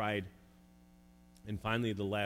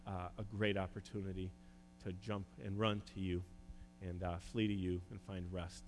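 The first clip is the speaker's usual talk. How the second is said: earnest hushed prayer for the church; 2 semitones lower, 3 dB quieter than usual. Acted. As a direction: pray it humbly over the congregation. Leads a prayer.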